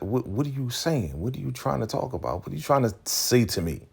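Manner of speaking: high, insistent mock questioning; retold indignant challenge. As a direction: imitate someone demanding an explanation. Retells Manny challenging the other man.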